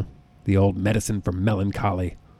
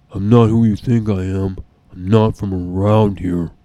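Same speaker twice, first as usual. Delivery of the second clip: louder, slow, mock deep heroine voice; deep Captain Marvel parody; 8 dB louder than usual. Imagining Captain Marvel with a deep voice, slow mock boom. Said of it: "Captain Marvel showing up like".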